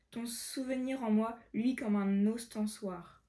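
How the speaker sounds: measured verse read-aloud; careful recitation of verse; poem reading. Acted.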